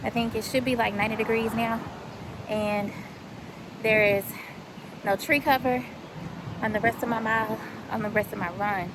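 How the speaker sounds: winded from the run; out of breath. Real, not acted. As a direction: talk while catching breath. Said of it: "catch my breath".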